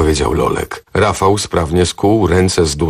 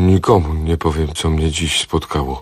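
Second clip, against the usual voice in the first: meek repeating. Acted. The captive repeats the vow, meek and fading. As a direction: mumble it back obediently.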